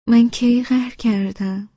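surprised and a little offended. A narrator's reading. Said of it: "با تعجب گفتم".

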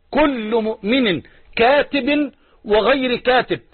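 slow, spaced-out quotation; measured hadith recitation. Acted. Preacher finishes the hadith on every believer reading, slow measured recitation. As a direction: give every word its own weight. Continues the quoted hadith slowly.

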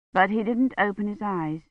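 usual speaking voice

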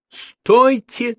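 high, loud cry to stop him; shouting. A narrator's reading. Professor shouts at the policeman about to hang up, high and loud. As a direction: yell it before he hangs up. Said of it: "закричала Елена Петровна".

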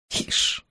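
breathy unvoiced hmph; a dry little scoff; scoffing grunt. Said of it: "хмыкнул Максим Георгиевич".

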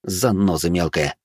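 slow grumbled insult. Acted. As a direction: mutter it grumpily, slowly. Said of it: "буркнул я".

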